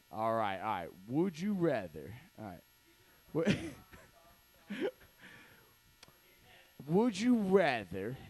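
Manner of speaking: slow, low game-show host voice; Francisco hosting. Retold or imitated. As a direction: draw out the questions like a roast host. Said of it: "here's my impression of Francisco".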